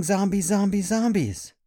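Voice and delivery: high, loud chant of alarm; mock screaming. Kids screaming for the neighbors to hear, hammed-up. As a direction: cry the word out in pretend terror. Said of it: "they're screaming".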